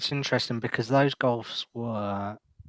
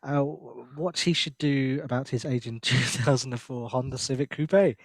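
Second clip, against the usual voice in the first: mock French accent, pitched up at the end; 2 semitones higher than usual. Reading a French listener's car question, mock French accent. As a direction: read it out as a playful Frenchman. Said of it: "I wanna see your French accent".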